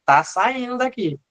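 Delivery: voiced heart lead. Negative lead announcing the impulse leaving, lightly acted call. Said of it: "ele tá dizendo".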